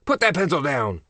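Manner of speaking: high, falling teacher's order; teacher's command. A narrator's reading. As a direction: call it out to the class. Teacher orders pencils down in story.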